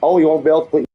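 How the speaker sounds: mock-stern Yorkshire daddy; put-on Yorkshire accent. Streamer threatening the naughty step, put-on Yorkshire accent. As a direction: scold in a daft Yorkshire accent. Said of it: "this daft Yorkshire accent he goes into".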